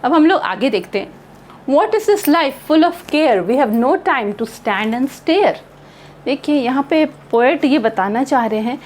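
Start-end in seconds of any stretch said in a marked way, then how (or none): 1.7-5.6 very slow, measured reading of each line; poem recitation. Acted. Teacher slowly reciting a poem to her class, measured. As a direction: read the poem aloud slowly for the students.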